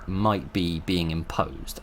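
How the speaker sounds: "might" picked out, the rest said normally; emphasis on MIGHT. Real, not acted. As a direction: stress the word "might" as a caveat. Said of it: "I emphasize the word might here".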